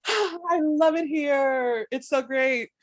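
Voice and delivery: high, drawn-out, tearful-sounding gush; mock-weepy squeal of happiness; overwhelmed delight. Reliving being overwhelmed by Paris.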